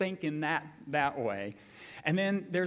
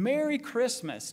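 high, bright holiday call; joyful greeting; 6 semitones higher than usual. Retold or imitated. Pastor acting George greeting the town, high and joyful. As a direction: call it out to passersby.

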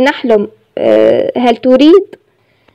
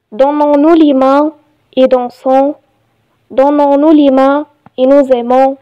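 measured reading with pauses between phrases; poem recitation; much slower than usual. Shown as a demonstration. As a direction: recite it line by line, evenly paced. (إلقاء قصيدة بتأنٍّ)

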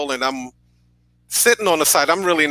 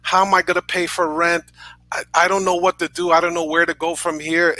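a touch of a mother's desperate begging, pitched higher; retold pleading; 5 semitones higher than usual. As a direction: gently reenact mom pleading for her job. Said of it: "my mom started begging this guy".

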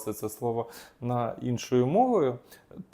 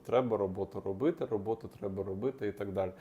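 fast, softer nagging voice of the anxious brain; quick, quieter nagging thought; anxious inner voice; 5 dB quieter, faster than usual. Shown as a demonstration. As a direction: rattle it off like a worried mind. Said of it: "тривожний мозок нагадує".

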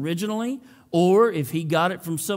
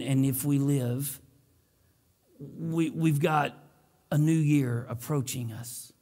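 prayer. Acted. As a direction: pray over the room, fading at each close. Pastor leads opening prayer.

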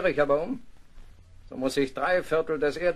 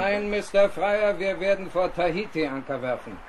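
firm refusal; 3 semitones higher, 4 dB louder than usual. Acted. Captain flatly refuses the proposal.

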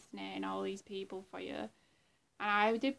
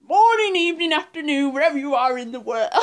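much louder, higher crazy greeting, fast at the end; Jeff Music Man impression; 4 semitones higher, 17 dB louder, faster than usual. YouTuber impersonating Jeff greeting viewers, loud crazy shout. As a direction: bellow a manic hello to the whole world. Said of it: "that was my impression of Jeff Music Man".

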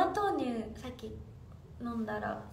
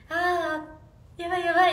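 mock panic; 2 semitones higher, 8 dB louder, slower than usual. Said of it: "って言ってました".

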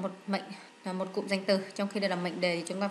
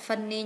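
funny stressed on the first syllable, FUN-ny. Shown as a demonstration. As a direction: put the weight on FUN in funny. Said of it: "nhấn âm một".

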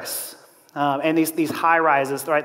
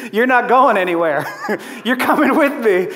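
laughing through a pretend clinging plea; laughing mock plea. Preacher pretends to cling to Jesus, laughing mock plea. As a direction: hold on to him, giggling.

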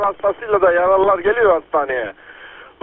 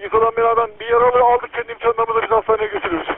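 police radio; 8 semitones higher than usual. Real, not acted. Earthquake emergency radio traffic.

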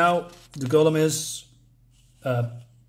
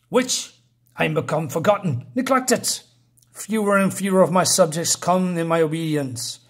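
mildly indignant queen, theatrical; mad Scorpion Queen. Acted. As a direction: play a queen airing her grievance, lightly angry. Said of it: "the Scorpion Queen is very mad".

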